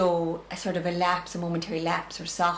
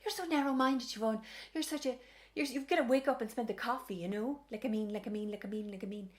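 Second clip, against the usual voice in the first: mock rant in a higher, softer voice; higher-pitched, hushed mock tirade; going off on one; 5 semitones higher, 5 dB quieter than usual. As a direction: lightly imitate her worked-up preaching, pitched up and trailing off. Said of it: "she just went off on one".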